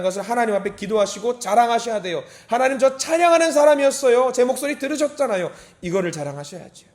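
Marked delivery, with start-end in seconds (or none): 2.5-5.5 high, loud, insistent plea; proud appeal. Acted. Worshipper reminding God of their praise, loud impassioned appeal. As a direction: boast to God at full voice.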